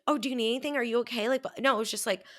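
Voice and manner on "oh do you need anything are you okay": higher fussing mother-hen voice; anxious mothering. Retold or imitated. Mocking overprotective friends for her friend, higher fussing voice. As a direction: fuss like a worried mom. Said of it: "anxiety mothering".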